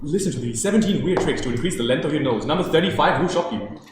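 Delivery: hyped clickbait ad read with laughs; clickbait video narrator. Pretend. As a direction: sell the weird trick like an ad. Mock clickbait ad headline.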